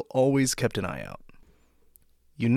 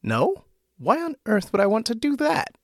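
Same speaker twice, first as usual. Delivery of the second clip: much higher, loud indignant outburst; 13 semitones higher, 5 dB louder than usual. A narrator's reading. Woman refusing a change of religion, loud and indignant. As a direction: fling the question back, outraged. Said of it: "asked the woman loudly".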